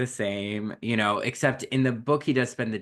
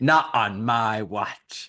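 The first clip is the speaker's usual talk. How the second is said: put-on flat, indignant tone; 3 dB louder than usual. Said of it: "she's not having any of it".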